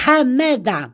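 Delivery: Hamada with a breathy Arabic H at the start; with the accent. Shown as a demonstration. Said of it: "dis Amada avec l'accent".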